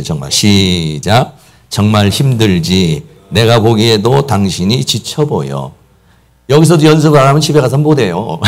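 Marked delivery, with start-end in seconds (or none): 1.7-5.7 very slow, spaced words for men to repeat; slow group recital. Shown as a demonstration. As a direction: lead the room through it slowly. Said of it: "우리 남자들만 한번 같이 한번 해보겠어요".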